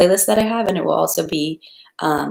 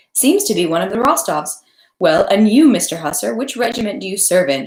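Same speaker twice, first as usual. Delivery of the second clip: hostess asking; 4 semitones higher, 4 dB louder than usual. Acted. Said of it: "she asked Natasha".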